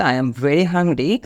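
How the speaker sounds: slow, evenly spaced words; the ordinary wording, said slowly; slow, plain version. Shown as a demonstration. Teacher giving the plain version before the idiom, slowly. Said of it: "এইটার পরিবর্তে আপনি বলতে পারেন".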